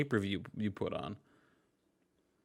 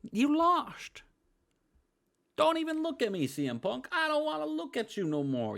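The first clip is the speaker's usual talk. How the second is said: Jim Cornette. Retold or imitated. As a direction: scold the locker room like a fed-up boss. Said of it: "What's Jim Cornette have to say?".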